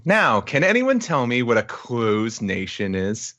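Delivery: slow, lightly voiced teacher; woman teacher. Teacher quizzing a class of little kids, slow measured delivery. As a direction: pose it slowly to a class. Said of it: "we hear a woman saying".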